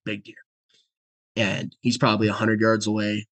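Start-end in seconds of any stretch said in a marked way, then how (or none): 0.1-0.4 very soft, hushed callout; retold whisper. Son pointing out a big deer to dad, whispering. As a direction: whisper it under your breath. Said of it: "I'm obviously whispering".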